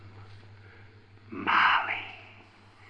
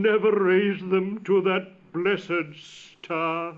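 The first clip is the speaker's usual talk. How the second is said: a lightly raised, lamenting ghost voice; mournful ghost; 3 semitones higher, 3 dB louder than usual. Acted. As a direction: grieve aloud as a doomed spirit. Marley's ghost speech.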